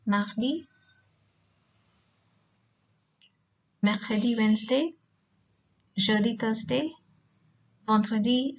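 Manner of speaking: each day name read out with a rising end; teacher modeling the days of the week; French day names. Shown as a demonstration. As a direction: list the French weekdays like a drill. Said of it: "Once again".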